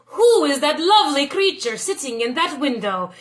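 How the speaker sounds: a lovestruck lord asking eagerly; lightly voiced gallant suitor; smitten nobleman. Nobleman asks about Serafina.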